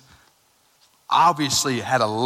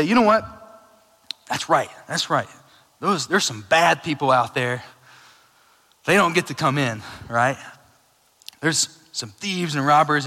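smug church people; 2 semitones higher, 5 dB louder than usual. Retold or imitated. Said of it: "Here's how church people take this".

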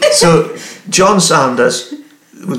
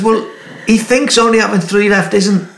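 laughing; 8 semitones higher, 3 dB louder than usual. Real, not acted. Explaining the joke while laughing.

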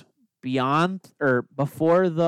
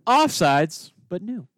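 dramatic reality show hype; 6 semitones higher, slower than usual. Pretend. Teasing rule reveal in stages.

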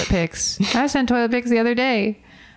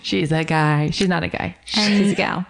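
whisper; 3 semitones lower than usual. Pretend. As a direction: breathe it out as a secret. Whispered joke.

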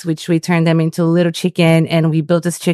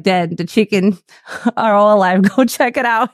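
laughing retelling; 3 semitones higher than usual. Retold or imitated. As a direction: quote broken by laughter, slightly higher. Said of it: "we're like".

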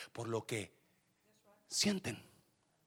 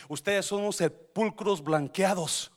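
mild denouncing; 4 semitones higher, 7 dB louder than usual. Retold or imitated. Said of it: "un día les dijo a los fariseos".

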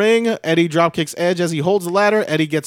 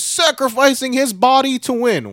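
high-pitched imitation of an announcer; excited commentator imitation; commentator's dramatic call; 9 semitones higher than usual. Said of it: "which I thought was a great call".

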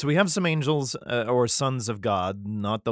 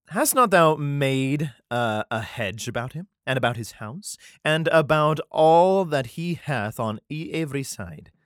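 put-on Scottish accent; 3 semitones higher, 3 dB louder than usual. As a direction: read Satan's lines in a light Scottish accent. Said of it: "I don't know why he's Scottish".

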